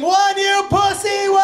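loud, high, slow mock scream; imagined scream. Jump worker fed up, screaming at the comedian. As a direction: yell it at the coward on the ledge. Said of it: "If she was allowed to scream".

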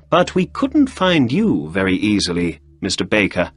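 a hint of Holmes, brisk and a little quick; lightly acted Holmes questioning his visitor.

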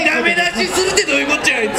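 high, rapid indignant complaint; indignant retort. Retold or imitated. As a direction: fire back fast, baffled and put out. Indignant retort quoting himself. (憤慨して早口で言い返す)

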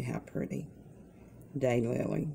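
whispered, admiring the lily; soft admiring whisper. Real, not acted. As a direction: breathe it out in wonder. Admiring a flower softly.

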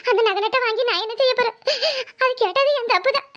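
tearful reproach with sobbing breaths; hammed-up sobbing lament; put-on crying. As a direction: weep as the wronged mother, laying on guilt. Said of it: "அழாத, அழாத".

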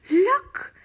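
high, loud startled cry; shouting. A narrator's reading. Missus Silver calling from the balcony below, shouting. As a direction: call out in alarm and amazement. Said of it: "Missus Silver was shouting".

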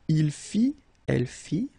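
"Il fit, elle fit" ending on i; silent final T. Shown as a demonstration. Teacher modelling verb forms, silent final T. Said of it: "final T not pronounced".

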